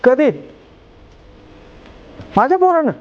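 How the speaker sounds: hear the bad news and refuse it; stunned phone disbelief; shocked on the phone. Shocked phone call about son.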